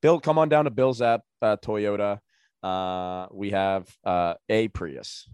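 like a local car commercial; car dealer ad. Acted. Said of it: "he owns a Toyota dealership".

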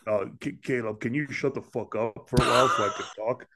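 low stoner grumble; Seth Rogen. Acted. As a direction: complain in a comic stoner impression. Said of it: "Seth Rogen as the Big Zo".

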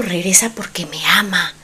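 hushed, breathy inner wish; soft whisper to herself; whispered hope. Retold or imitated. Her own past hopeful thought.

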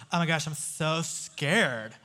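a light put-on young girl's voice, slow; lightly voiced scared schoolgirl, drawn out; a hint of a giggly fifth grader; fifth grade girl voice. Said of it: "That's my fifth grade girl voice".

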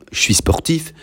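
"Je suis sportif" with the s of suis left silent; silent final s. Shown as a demonstration. Teacher showing pupils silent letters, "Je suis sportif" without the s of suis. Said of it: "there it is silent".

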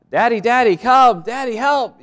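high, loud frightened call for daddy; child crying out. Retold or imitated. Child in the dark calling for daddy, high and loud. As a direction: call out like a scared child at night. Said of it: "they cry out".

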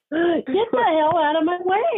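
slow, mock-stern get the hell out; mock demand. Friend playing the stuck hiker, slow mock demand. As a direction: drag each word out like a fake threat. Friend voicing blocked narrator.

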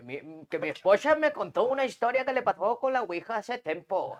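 a hint of a shaky old grandpa reading; very old man. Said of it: "¿por qué hablo como viejito?".

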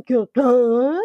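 exaggerated gagging noise; mock disgusted gag. Mimicking the woman's reaction to the explosion, mock gag. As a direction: imitate a ridiculous recoiling reaction. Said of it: "She, like, pulls this ridiculous face".

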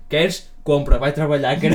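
reading the note out through laughter; mocking note read laughing. Laughing as he tells his friend about the note.

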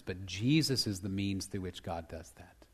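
hushed, breathy whisper of wonder; awed whisper over the father's love. Real, not acted. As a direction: drop to a whisper as if sharing a secret. Hushed point about Jesus.

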